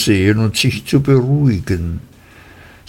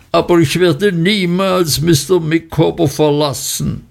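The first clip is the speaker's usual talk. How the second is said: higher, mild mock shriek; shrill declaration not quite at full volume; rising to a shriek; 7 semitones higher than usual. A narrator's reading. Wife shrieking her loyalty, understated. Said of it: "ihre Stimme zu lautem Kreischen gesteigert".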